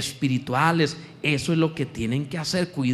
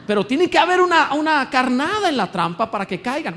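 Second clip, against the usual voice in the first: loud preaching; 9 semitones higher, 5 dB louder than usual. Real, not acted. Preacher building to a point.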